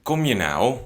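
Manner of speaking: exasperated "Kom je nou?" with a rising tune; annoyed. Shown as a demonstration. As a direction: ask like you've been kept waiting too long. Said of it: "you're showing a little bit of annoyance".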